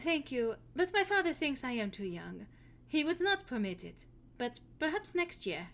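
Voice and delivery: put-on politely declining in a light German accent. Hilda declines a date politely in a German accent. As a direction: Hilda turns down the date sweetly. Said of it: "this accent".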